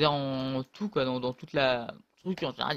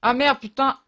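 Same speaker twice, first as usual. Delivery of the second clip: loud, higher swearing burst; angry outburst; 8 semitones higher, 9 dB louder than usual. Real, not acted. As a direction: curse out the loss. Rage en jouant. (juron rageur et fort)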